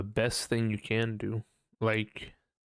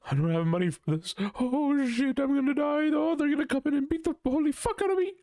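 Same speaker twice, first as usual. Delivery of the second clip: rising to a very high, fast panicked squeal; hammed-up meltdown, climbing in pitch; mock freak-out. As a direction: build the panic higher and faster to the end. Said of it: "freaking out about it and being like".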